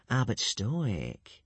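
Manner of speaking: slow, sly and crafty. Acted. Alvin coaxing Stoic, slow and crafty. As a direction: draw him in slyly. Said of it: "said Alvin craftily".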